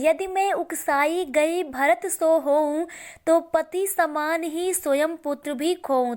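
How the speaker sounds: measured, slowed verse reading; poem recitation. Acted. Teacher reciting Kaikeyi's oath to Ram, measured recitation. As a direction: give each phrase of the couplet room.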